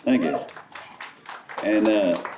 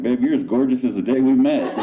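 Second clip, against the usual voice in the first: same line again, laughing through it; repeated with a laugh; 3 semitones higher than usual. Retold or imitated. Husband repeating answer to wife, laughing. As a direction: repeat it, cracking up. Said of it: "And I was like".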